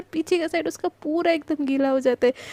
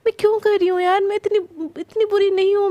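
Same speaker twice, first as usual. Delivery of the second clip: self-reproach; 5 semitones higher, 4 dB louder than usual. Acted. Krishna berates herself.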